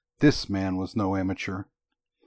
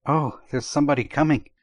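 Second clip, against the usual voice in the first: husky, hushed warning; 5 semitones higher than usual. A narrator's reading. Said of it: "in a husky tone of voice".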